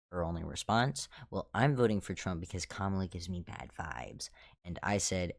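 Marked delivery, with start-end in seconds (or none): 1.3-4.3 whispered, dismissive imitation of her; mocking whisper of coworker. Repeating the coworker's Trump reasoning in a mocking whisper. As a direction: breathe her excuse out in a snide whisper.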